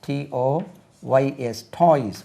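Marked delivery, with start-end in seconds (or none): 1.8-2.2 "toys" ending in a buzzing z. Shown as a demonstration. Teacher showing that "toys" ends in a z sound. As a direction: end "toys" on a voiced z. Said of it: "உச்சரிப்பு பாருங்க, toys, Z-ல முடிக்கணும்".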